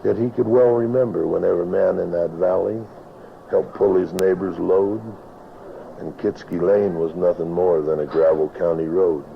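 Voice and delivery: rhythmic rhyming recitation, lightly performed; cowboy poetry. Acted. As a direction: recite it like a tale by the campfire. Recites his poem The Vanishing Valley.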